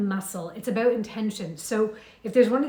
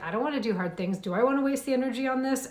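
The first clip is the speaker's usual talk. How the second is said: drama queen; 3 semitones higher, faster than usual. Retold or imitated. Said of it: "whole drama queen in there".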